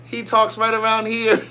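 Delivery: mock tenor monotone. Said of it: "Keops said he's a tenor".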